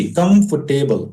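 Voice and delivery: कंफर्टेबल slowly in parts, "kumf, tebal"; slow teacher's model of कंफर्टेबल without "fur"; correct pronunciation. Shown as a demonstration. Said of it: "इसको पढ़ेंगे कम्फ". (कंफर्टेबल, धीरे से "कम्फ-टेबल")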